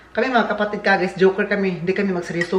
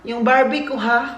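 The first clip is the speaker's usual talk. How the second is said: little niece; 6 semitones higher, 3 dB louder than usual. Retold or imitated. Niece asking uncle for her Barbie, childlike. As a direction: sound like a four-year-old asking. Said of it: "yung anak na ate ko na babae".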